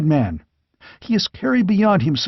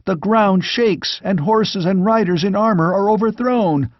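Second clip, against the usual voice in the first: horrified; 9 semitones higher than usual. Acted. Squire sees disaster.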